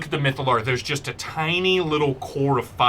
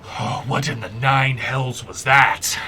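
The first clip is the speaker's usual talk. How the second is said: god voice. Acted. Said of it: "and she goes".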